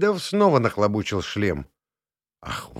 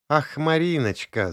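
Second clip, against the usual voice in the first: higher, hammed-up jealous sigh; mock jealousy; 6 semitones higher than usual. Rita teasing Misha over his caller, mock jealousy. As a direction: pretend to be jealous. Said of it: "изображая ревность".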